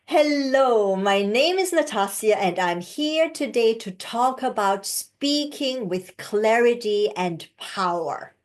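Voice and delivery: steady, grounded self introduction; confident intro. Shown as a demonstration. Coach demonstrating a confident presentation opening. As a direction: stand tall and own every word. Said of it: "see the difference".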